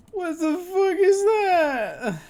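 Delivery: slow pained cry at a worse food crime; anguished wail. Real, not acted. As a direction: wail it like the picture hurts. Reacting to a cursed food picture.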